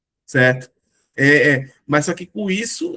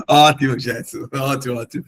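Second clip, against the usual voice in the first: amused, laughing; 4 semitones lower than usual. Real, not acted. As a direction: praise the joke through real laughter. Rindo da piada do Jefferson. (falando entre risadas)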